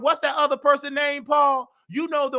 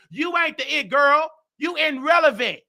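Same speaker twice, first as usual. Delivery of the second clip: mock roast; 3 semitones higher than usual. Real, not acted. Roasting a rival, yelling.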